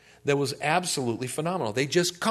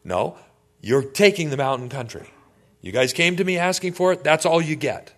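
put-on louder, firm old leader putting his foot down; firm louder reply; 2 semitones higher, 6 dB louder than usual. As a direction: shut the complaint down hard. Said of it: "So in other words".

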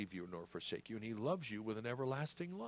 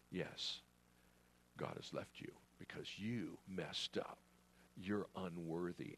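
soft, low hushed whisper of the tempter; enemy whispering; 4 semitones lower, 6 dB quieter than usual. Acted. Preacher voicing the enemy whispering condemnation, hushed. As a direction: breathe the accusation into their ear. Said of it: "the enemy whispers in your ear".

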